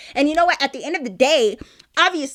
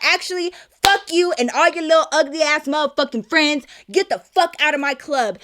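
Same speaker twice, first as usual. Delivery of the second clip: higher-pitched trash talk, acted out; retold angry tirade; 4 semitones higher than usual. Brother ordering the girls out of his club, acted angry. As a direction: imitate him cursing out the whole group. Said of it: "he starts talking shit".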